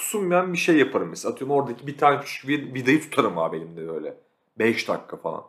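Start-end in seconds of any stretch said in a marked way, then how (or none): none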